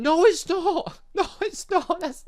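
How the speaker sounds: high, loud, incredulous objection; laughing protest. Real, not acted. Player correcting the game's wrong shop name, incredulous. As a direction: blurt it out high, half laughing.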